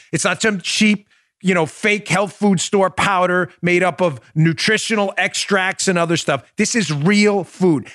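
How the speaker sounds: upbeat sponsor pitch read straight to listeners. Acted. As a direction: sell the product like a radio host. Host reads sponsor ad.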